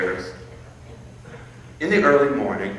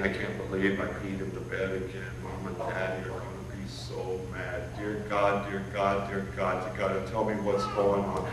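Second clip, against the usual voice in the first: put-on much softer, tearful child's plea; sobbing little boy; 2 semitones lower, 3 dB quieter than usual. Little boy praying after wetting the bed, soft and tearful. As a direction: whisper out a child's desperate prayer into the pillow. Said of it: "And he was sobbing".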